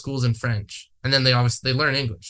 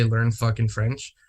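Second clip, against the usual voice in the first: dismissive quote; 2 semitones lower, slower than usual. Retold or imitated. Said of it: "for someone to say".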